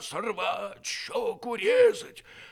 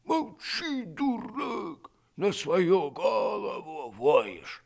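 shouting; 11 semitones higher, 4 dB louder, much slower than usual. Retold or imitated. Retold shout at dog.

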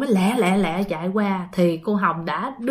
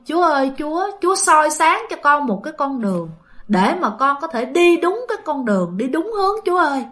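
higher-pitched retold plea to God; pleading prayer; 4 semitones higher than usual. Mother prays to God for her child, pleading. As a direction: imitate a mother begging heaven, without real tears. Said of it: "cô mới cầu nguyện Thiên Chúa".

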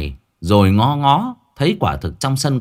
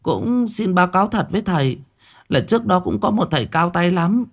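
deferential plea; 5 semitones higher than usual. Acted. Liên asks the master for help.

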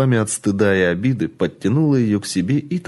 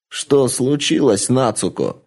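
shouted question; 3 semitones higher than usual. Acted. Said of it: "выкрикнула она".

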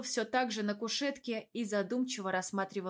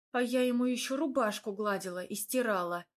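grumbling. Acted. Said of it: "ворчала я".

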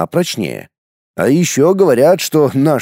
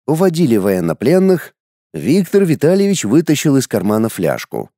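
ordinary delivery, nothing marked

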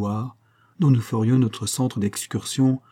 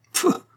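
a dismissive hissed pfff; old engraver's contemptuous pfff at the suitor; scornful hiss. Acted. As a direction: blow out air in disdain. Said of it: "siffla dédaigneusement le ciseleur".

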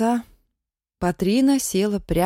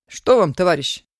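impatient. Acted. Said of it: "нетерпеливо спросил тот".

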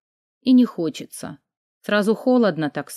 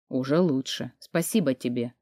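low, soft reply; quiet voice; 5 semitones lower, 5 dB quieter than usual. A narrator's reading. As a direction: answer weakly, keeping the volume down. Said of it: "ответил он тихим голосом". (тихим низким голосом)

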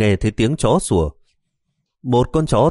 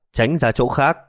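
shout; 4 semitones higher than usual. Acted. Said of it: "Bà quát to một tiếng".

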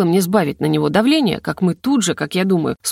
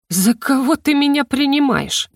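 indignant; 6 semitones higher than usual. Acted. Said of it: "возмутился ректор".

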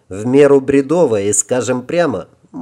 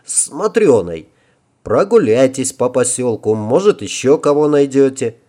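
hoarse voice. Acted. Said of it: "внезапно охрипшим голосом сказал я".

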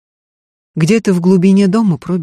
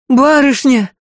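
higher, louder call; maid's sudden higher, louder shout; startled cry; 8 semitones higher, 4 dB louder than usual. Acted. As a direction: cry out after her. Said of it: "вскинулась Марфа".

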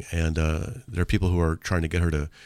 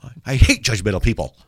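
ironic; 3 semitones higher, 4 dB louder than usual. Shown as a demonstration. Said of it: "Like that".

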